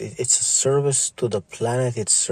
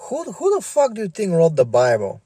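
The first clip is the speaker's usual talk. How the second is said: angry challenge; 6 semitones higher than usual. Real, not acted. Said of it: "repeated rhetorical question".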